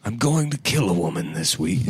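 Alec Baldwin voice. Retold or imitated. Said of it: "spoke as Alec Baldwin".

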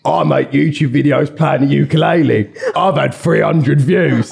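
a hint of an old bloke showing off his videos; put-on older man's voice. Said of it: "doing the voice, it's really hurting".

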